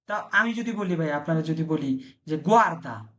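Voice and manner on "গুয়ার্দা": "গুয়ার্দা" starting with a hard g; hard g pronunciation. Shown as a demonstration. Teacher tests students on the rule, "গুয়ার্দা" with hard g. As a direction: say "গুয়ার্দা" as GWAR-da. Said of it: "তাহলে কি আপনাকে আমি জুয়ার্দা বলবেন".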